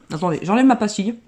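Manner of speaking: slight lisp from a lozenge. Real, not acted. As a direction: talk around a lozenge. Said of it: "je zozote depuis tout à l'heure".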